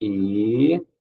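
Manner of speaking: "Hiato" split as hi-a-to, vowels apart; showing how to split the word; syllable split. Shown as a demonstration. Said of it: "Se separa assim".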